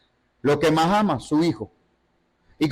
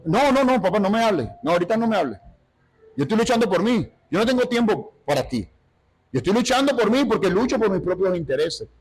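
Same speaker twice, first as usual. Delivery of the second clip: higher, brushing-off voice; dismissive believer; 4 semitones higher than usual. Acted. Believer brushing off God, higher and impatient. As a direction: wave off the father, too busy.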